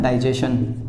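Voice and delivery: डाइजेशन said with a plain shun ending; everyday pronunciation. Shown as a demonstration. Teacher contrasting the common डाइजेशन. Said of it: "डाइजेशन जैसे word होता है ना".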